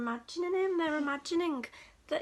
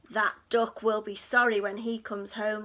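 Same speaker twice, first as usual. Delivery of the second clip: muttering; 4 semitones lower, 5 dB louder than usual. Acted. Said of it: "they muttered".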